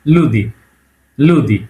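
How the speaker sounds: "লুদি" with a softened "দি"; soft consonant demo. Shown as a demonstration. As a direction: show learners the soft d in "লুদি". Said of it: "নরম মানে কিভাবে বলে?".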